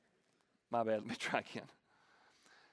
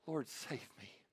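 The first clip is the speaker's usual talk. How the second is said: cry for help; 3 semitones lower, 10 dB quieter, slower than usual. A narrator's reading. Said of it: "he cried out".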